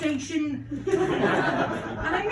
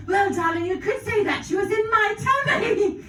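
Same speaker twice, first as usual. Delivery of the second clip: mum voice; 5 semitones higher than usual. Acted. Mother voice in Peppa Pig bit.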